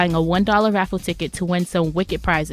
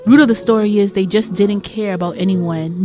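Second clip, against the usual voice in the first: fairy-tale storytelling. Acted. Storyteller introducing rude women of Zamunda, fairy-tale storytelling. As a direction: narrate it like a tale, stretching key words.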